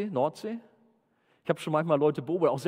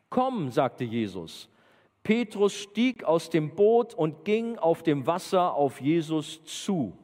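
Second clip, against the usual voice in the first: raised, slow, emphatic Bible reading; dramatic scripture reading; 6 semitones higher, slower than usual. Acted. Preacher reads Peter's walk to the youth group, dramatic reading. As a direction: read the story out slowly and with drama.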